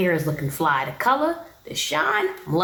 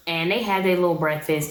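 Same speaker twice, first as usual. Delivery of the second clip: normal talking voice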